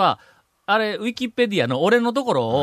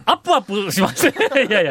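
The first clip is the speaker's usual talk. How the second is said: laughing; 5 semitones higher, faster than usual. Real, not acted. Laughing wordplay.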